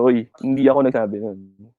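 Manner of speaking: emphasis on "ako"; stress on AKO. Shown as a demonstration. Teacher explaining the meaning of stressed I, "ako" stressed. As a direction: put the weight on "ako". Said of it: "Pag nandun yung emphasis sa I".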